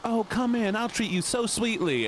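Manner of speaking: high, syrupy fake welcome; mock sweet country host. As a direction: pour on fake Southern sweetness. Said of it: "people are like".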